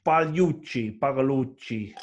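lightly put-on Italian accent. Naming the Cuban engineer, in an Italian accent. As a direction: say the surname with playful Italian flourish. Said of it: "I'm doing an Italian accent".

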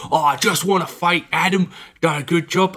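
a Cockney impression that drifts Australian; failed Cockney accent. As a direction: quote the actor in a botched Cockney accent. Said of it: "put on his proper Cockney accent".

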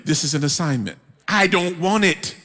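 laughing reluctance. Retold or imitated. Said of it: "the Holy Spirit goes".

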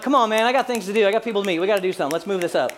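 brisk, pressing complaint; impatient hurrying. Acted. Impatient reply to slow caller.

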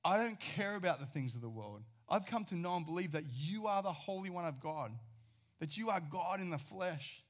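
Peter's confession retold with fervent conviction; bold declaration. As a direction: declare it like you'd stake everything on it. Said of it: "Peter's like".

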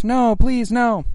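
anguished denial. Acted. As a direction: beg for mercy, hammed up. Victim begs again.

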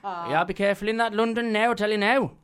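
mock the worried dad, half laughing; a hammed-up anxious Black Country dad; imitating his dad. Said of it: "my dad texts me".

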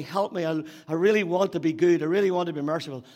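hurried, mounting plea to God; striving, pleading prayer. Acted. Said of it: "That's how we read that scripture".

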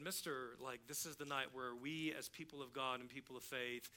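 soft, low-pitched aside, as if in church; hushed retold explanation. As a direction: explain it discreetly, keeping your voice down. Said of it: "I'm saying this as we're kinda walking down this aisle".

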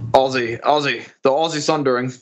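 Aussie said with an S, British-sounding. Shown as a demonstration. Host asks for Aussie with a Z, guest sounds British. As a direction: attempt at Aussie that comes out British. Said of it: "That was more British".

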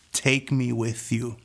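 drawn-out, slow plea; slow pleading. Retold or imitated. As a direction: stretch each word, begging. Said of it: "And I said".

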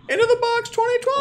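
big, high, excited hype call; excited announcement. Real, not acted. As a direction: announce it like a game show host. Hyping the upcoming conference.

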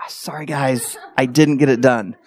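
low, softened mock apology; apologetic. Same guy failing the group, apologetic. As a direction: lightly imitate a sheepish confession.

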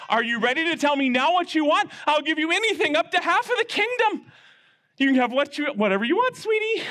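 a king sweet-talking his queen; gentle king. Acted.

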